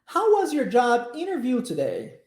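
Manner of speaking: measured language-teacher model reading in English; model sentence for repetition. Shown as a demonstration. Teacher models the question for students to repeat, clear demonstration. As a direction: say it clearly for learners to echo. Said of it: "eu vou falar a frase pra você".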